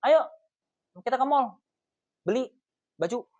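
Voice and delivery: high, loud commanding invite; first take, a hammed-up pushy girlfriend; bossy version. Shown as a demonstration. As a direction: bark the plan at him, high and loud. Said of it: "Sama yang versi kedua".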